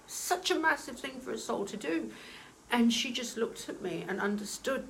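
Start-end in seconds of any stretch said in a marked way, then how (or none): 0.1-2.1 welling up. Real, not acted. Medium repeating the point to viewers, choked up. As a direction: say it again as the feeling catches you. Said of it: "I'm getting emotional again".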